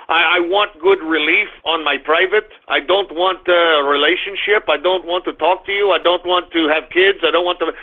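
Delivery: lightly put-on Russian accent. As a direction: give the blunt demands a hint of Russian. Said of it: "I'm talking like a Russian".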